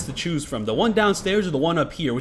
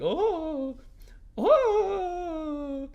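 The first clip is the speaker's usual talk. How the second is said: startled; 14 semitones higher than usual. Retold or imitated. Panicked at key card moment.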